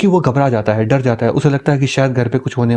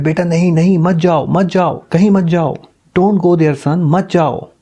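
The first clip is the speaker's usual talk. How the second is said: frantic pleading; 5 semitones higher than usual. Acted. Father begs son not to go.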